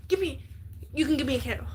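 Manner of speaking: soft whisper of a gift idea; whispered aside. Real, not acted. Suggesting cheap gifts to a classmate, whispered. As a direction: breathe it under the voice.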